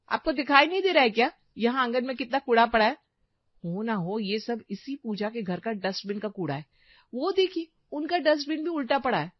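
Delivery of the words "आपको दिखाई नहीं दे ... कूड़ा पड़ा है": irritated snap. Acted. Wife snapping at husband.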